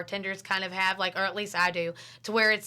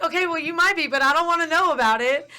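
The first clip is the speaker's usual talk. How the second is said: raised, high-pitched comeback; acted dismissive retort; 7 semitones higher, 7 dB louder than usual. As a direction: concede it loudly, then refuse to hear more. Acted retort continues to boasting customer.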